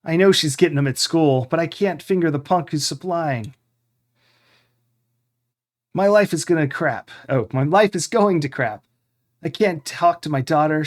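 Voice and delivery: a hammed-up depressed old man; mock depressed. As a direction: ham up a sad drunk friend's lament. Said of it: "Jack speaks in a very depressed voice".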